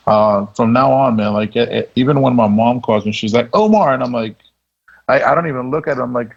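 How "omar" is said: raised, higher-pitched call of a name; mom calling out. Retold or imitated. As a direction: lightly imitate a mother calling her son. Mom calling his name in story.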